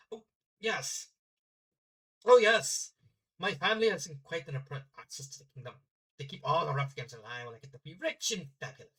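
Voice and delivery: lightly put-on Norse accent. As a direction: play a haughty princess with a Norse accent. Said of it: "I'm only doing the accent".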